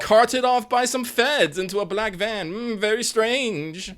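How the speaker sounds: high, slow Upper Midwest drawl; sing-song Minnesota accent, way up high; weird Minnesota accent. Pretend. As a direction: play a gossipy Minnesotan witness. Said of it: "I'm making a weird accent".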